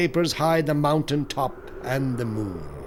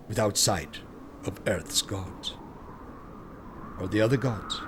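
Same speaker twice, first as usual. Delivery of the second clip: hushed; 6 semitones lower, 10 dB quieter than usual. A narrator's reading. Hushed ending of the tale.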